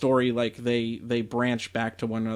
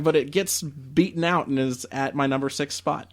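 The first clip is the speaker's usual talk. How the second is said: normal talking voice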